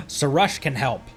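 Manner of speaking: ordinary delivery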